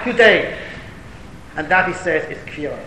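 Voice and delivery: usual speaking voice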